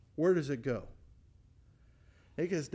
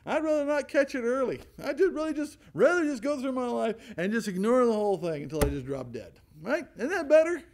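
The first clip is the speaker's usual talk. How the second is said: higher, louder ironic reasoning; sarcastic mock logic; 5 semitones higher, 4 dB louder than usual. Preacher mocking those who avoid the doctor, sarcastic. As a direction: play the fool who ignores sickness.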